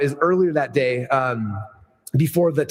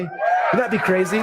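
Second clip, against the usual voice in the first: slow, shouted big dream; excited; 3 semitones higher, slower than usual. Acted. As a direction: shout the vision out slowly. Dreaming big about his event.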